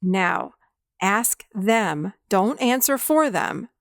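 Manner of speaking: slow, deliberate coaching with long pauses; measured guidance, leaving space after each instruction. Shown as a demonstration. Therapist guiding a client to the inner child, slowed down. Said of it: "I'll have them slow down".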